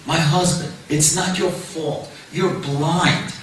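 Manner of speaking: gentle wife. Acted. Wife imagined gently telling husband.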